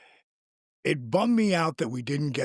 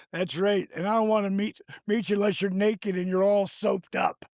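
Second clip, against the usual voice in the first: retold snap; 6 semitones higher than usual. Retold snapping back at Show.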